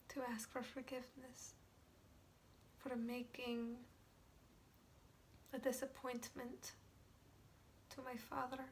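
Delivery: halting, reverent softness; quiet and prayerful, searching for words; hushed, pained confession. Acted. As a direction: confess it softly, with long pauses. Hushed confession of love for father.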